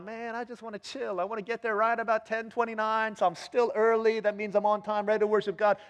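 high, easygoing self-justifying voice; laid-back latecomer. Acted. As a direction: play someone casually excusing their timing. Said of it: "Somebody's all about".

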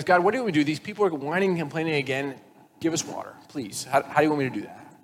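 lightly voiced, put-upon Moses; pleading Moses. Moses complaining to God about the people, pleading. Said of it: "he goes".

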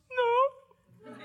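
put-on very high squeaky child voice; tiny voice with a laugh; squeaky boy's no. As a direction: peep it like a kid. Son answers father.

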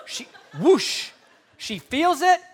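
a sudden thrilled whoosh; excited whoosh. Acted. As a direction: feel the healing rush through you. Preacher enacts healing moment.

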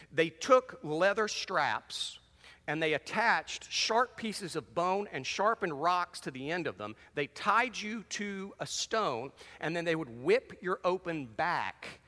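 slow, deliberate, heavy words; very slow and solemn; slow grave description. Real, not acted. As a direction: drag out the gory flogging. Describing flogging slowly.

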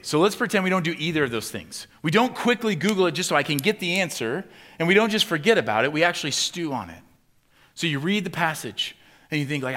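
loud, high, driving preacher's build; preaching at full force. Acted. Pastor pressing the congregation, loud and high. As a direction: preach it hard, rising in urgency.

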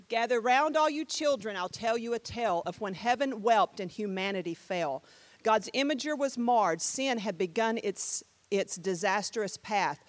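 rhythmic poem reading; measured poetic delivery; spoken-word recital. Shown as a demonstration. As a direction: recite it like a storyteller keeping the beat. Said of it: "this is a spoken word here".

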